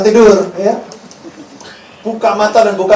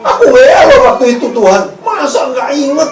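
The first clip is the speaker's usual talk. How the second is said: mock pleading volunteer; 7 semitones higher, 5 dB louder than usual. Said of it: "yang datang gini".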